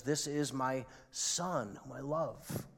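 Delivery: slow, soft, hushed voice from heaven; hushed voice of God. Acted. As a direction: let God's words fall quietly. Preacher quoting God at baptism.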